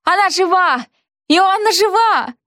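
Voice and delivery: high, joyful cry; ecstatic exclaiming. A narrator's reading. Friends rejoicing that the heroine is alive, exclaiming. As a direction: cry out in delighted relief. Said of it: "в упоении восклицали".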